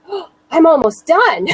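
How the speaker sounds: relieved laugh with a catch of crying; almost done, laughed out with tears close; laughing relief. Retold or imitated. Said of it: "I thought".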